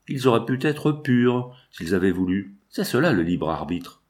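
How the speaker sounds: a touch of gentleness, slowing on the first words; calmly patient priest, barely softened; almost gentle. Acted. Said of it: "Sa voix était presque douce".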